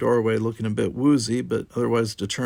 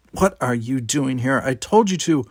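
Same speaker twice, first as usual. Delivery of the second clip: sharp, louder rising snap; an angry, louder retort; 3 semitones higher, 5 dB louder than usual. Acted. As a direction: snap at the intruder. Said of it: "looked at him angrily and snapped".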